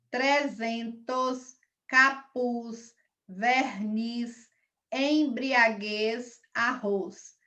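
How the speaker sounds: slow, separate words with pauses; word-list dictation. Real, not acted. Teacher reading out a spelling word bank, slow dictation. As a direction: read each word slowly and distinctly.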